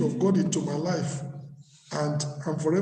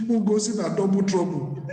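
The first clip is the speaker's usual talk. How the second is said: mock song. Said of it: "he will be singing".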